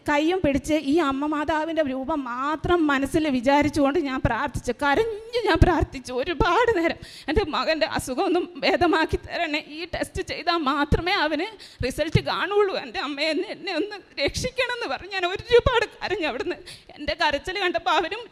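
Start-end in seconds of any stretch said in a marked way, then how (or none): 4.8-16.6 choked up while telling it; fighting back tears as she relives the prayer; real emotion welling up in a testimony; tearful. Real, not acted. Mother retells tearful prayer for son.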